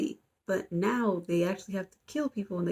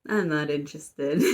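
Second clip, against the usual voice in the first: slower, flat brush-off in mock; unimpressed; 3 semitones lower than usual. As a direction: shrug the line off, not impressed. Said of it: "completely unimpressed".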